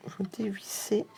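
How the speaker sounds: chuchoté. Real, not acted. Manipule le flacon.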